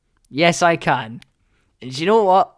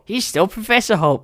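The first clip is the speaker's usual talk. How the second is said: dismayed disbelief; 6 semitones higher than usual. Retold or imitated. Acting out his dismay in cinema.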